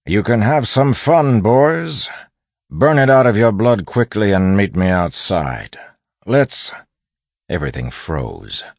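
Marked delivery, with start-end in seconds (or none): 0.0-6.7 loud, high bandit boss shout; yelled orders. A narrator's reading. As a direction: yell permission to the gang. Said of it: "he yelled".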